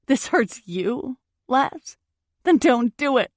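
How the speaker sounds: slow disbelief building to loud demand; high, mounting challenge; incredulous challenge. Acted. Girlfriend demanding Laz not do it, angry and incredulous.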